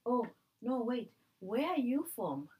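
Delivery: loud, high insistent questioning; mock nosy interrogator. Mocking strangers who demand to know where she's from, loud and high. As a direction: push like a pushy stranger.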